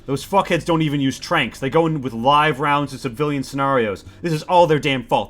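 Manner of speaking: lightly voiced witness, growing indignant; acted exasperated testimony; agitated systems engineer. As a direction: start halting, build to heated blame. Informant character, explanation turning angry.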